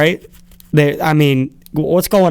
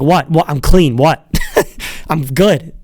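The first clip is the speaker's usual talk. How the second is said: indignant protest. Retold or imitated. Pitcher protests to the umpire checking him, mock indignant. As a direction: protest innocence with a shrug. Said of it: "He's like".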